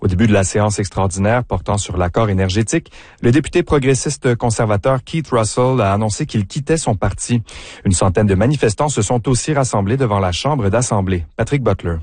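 even, formal newscast delivery; news read. Acted. Host opening the morning news bulletin, formal news read. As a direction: read the headlines like the radio news.

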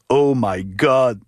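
slow, drawn-out oh my God; starstruck. Real, not acted. Fan gushing to Camille about Paul, slow starstruck. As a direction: stretch it out, overwhelmed fan. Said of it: "Je capote".

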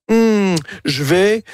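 slow, hesitant musing in character; lightly acted second thoughts, drawn out. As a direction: pause and weigh it slowly. Voices a character hesitating over pride.

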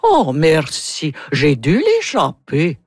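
slow, drawn-out Russian accent; Natalia's Russian accent. Shown as a demonstration. Actress shows how her Russian princess says thanks, Russian accent. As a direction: modulate each phrase in a Russian accent. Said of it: "j'ai l'accent".

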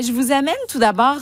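usual speaking voice

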